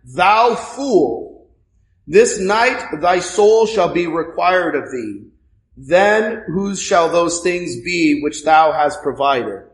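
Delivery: slow, solemn reading of scripture. Acted. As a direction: read the words of God gravely. Reads Christ's words.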